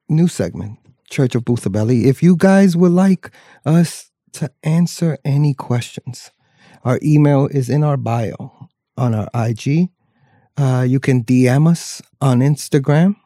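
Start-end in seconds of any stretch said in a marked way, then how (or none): 2.1-13.2 slow, drawn-out preacher cadence; lightly voiced Southern preacher. Preacher voice announcements.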